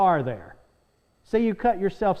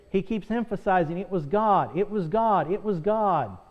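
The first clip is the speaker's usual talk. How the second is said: insistent pulpit emphasis on God; repeated stress on God. Shown as a demonstration. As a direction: hammer the word God each time, falling on God. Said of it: "he's emphasizing that".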